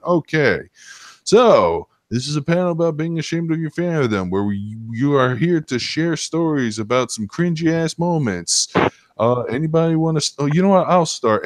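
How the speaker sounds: lightly hammed-up emcee rallying the room; upbeat host voice. Hosts rescuing the panel, quoted.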